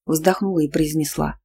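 usual speaking voice

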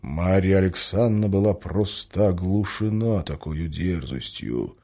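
ordinary delivery

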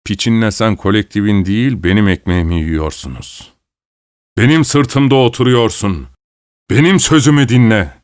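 mild mock shout; lightly voiced angry husband; husband yells at wife about his bread. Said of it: "diye bağırdı Alexander".

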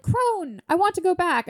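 high, plaintive mock summons; knight calling out. Knight asking crone to return, mock pleading. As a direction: call for the crone, lightly hammed up.

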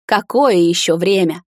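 the king snaps and shouts; breaking into a shout. A narrator's reading. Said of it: "сорвавшись, закричал он". (король срывается на крик)

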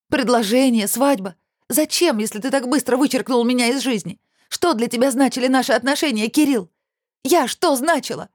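high, heated indignation; indignant. A narrator's reading. Olya demands answers from Kirill, high indignant voice. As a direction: fling the questions at him. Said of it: "Она так и пылала негодованием".

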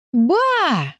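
high drawn-out call to grandma; stifled glee. A narrator's reading. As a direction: call out, holding back giggles. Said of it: "пытаясь не расхохотаться в голос". (восторженно, сдерживая смех)

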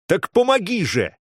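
high, desperate cry; breaking into shouting. A narrator's reading. Usually calm boy begging the mage, breaking into shouting. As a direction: burst out, pleading for help. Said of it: "сорвался на крик".

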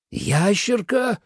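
slow, outraged echo of the word; indignant gasp. A narrator's reading. Dragon outraged at being called a lizard, gasping indignantly. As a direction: choke on the insult, drawing it out. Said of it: "задохнулся от возмущения".

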